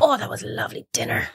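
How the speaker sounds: a breathy, mock-sweet "Oh, that was a lovely dinner"; faked dinner-table praise, quick and high; silly put-on voice. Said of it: "She's doing the voices again".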